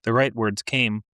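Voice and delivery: measured, unhurried literary reading; story narration. A narrator's reading. Author reading her story to a listening audience, measured narration. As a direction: read it to the room like a practised author.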